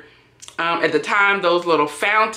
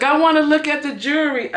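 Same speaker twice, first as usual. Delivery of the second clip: tipsy whine; 8 semitones higher, faster than usual. Retold or imitated. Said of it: "She's like".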